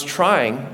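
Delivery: "trying" drawn out with emphasis; stress on TRYING. Shown as a demonstration. Pastor admits he was only trying to date, stress on "trying". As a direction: lean hard and slow on "trying". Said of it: "emphasis on the word trying".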